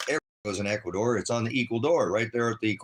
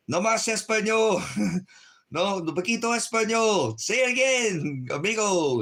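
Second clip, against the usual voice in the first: much higher, louder put-on voice; playful imitation of locals teasing him; hammed-up amigo voice; mock Spanish-speaking local; 12 semitones higher, 4 dB louder than usual. Quotes locals in pretend scene.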